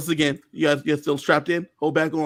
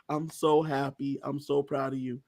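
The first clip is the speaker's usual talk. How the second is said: acted tender pride; 3 semitones lower, 8 dB quieter than usual. Ally congratulates secret winner, softly proud. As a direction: let quiet happiness sink in.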